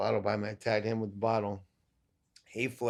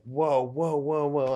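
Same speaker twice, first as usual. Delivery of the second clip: raised, louder string of whoas; retold warning; 5 semitones higher, 5 dB louder, slower than usual. Fighter recalls a man running up on him, alarmed warning. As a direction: re-enact fending someone off. Retells warding off man rushing up.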